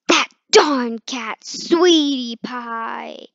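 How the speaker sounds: loud, drawn-out cry of jealousy; huffy loud exclamation; jealous outburst. Acted. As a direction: blurt it out at the cat. Lovebird's jealous angry thought.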